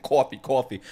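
coffee in a New York accent. Shown as a demonstration. Proving to viewers they're from New York, New York accent. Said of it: "specifically from my accent".

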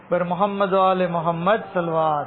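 calling out salawat to the gathering; call to the crowd. Real, not acted. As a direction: lead the crowd's response, calling out. (मजमे को पुकारना)

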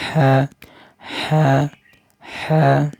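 হা with light throat pressure; throat-pressed ha. Shown as a demonstration. Teacher demonstrating the letter হা for students, throat pressed. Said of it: "হালকা একটু গলা চাপ দিয়ে".

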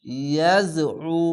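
ইয়াজউ with the আইন made heavy and pressed in the throat; thick throat ain. Shown as a demonstration. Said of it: "আইনটিকে মোটা করে গলা চেপে পড়বেন". (ইয়াজউ গলা চেপে মোটা আইন)

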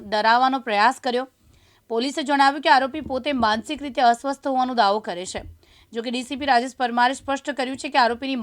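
steady news report voice; news read. Acted. Reporter reading the police update as a news read.

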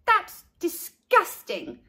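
high, slow disgust; slow yucky groan; tongue out. A narrator's reading. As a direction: say it with tongue stuck out. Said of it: "sticking out her tongue".

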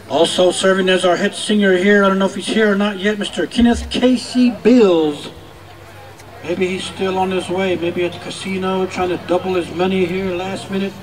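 booming arena announcer calling names; powwow emcee. Acted. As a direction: announce each dancer to the crowd.

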